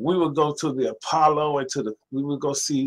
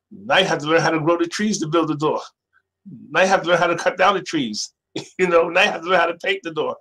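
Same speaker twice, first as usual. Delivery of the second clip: building excitement; 3 semitones higher, 6 dB louder than usual. Real, not acted. Listing ever more things to learn.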